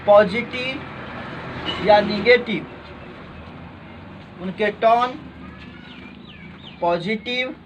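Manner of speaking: measured classroom dictation. Real, not acted. Teacher dictating a note to students, measured dictation.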